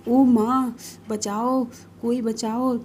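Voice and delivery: panicked calling out for rescue; frightened cry for help. Acted. Girl caught under falling library books, crying out in fright. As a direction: yelp for help as things fall on her.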